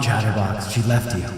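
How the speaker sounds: spooky ghost voice. Pretend. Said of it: "do I have spooky voice on right now".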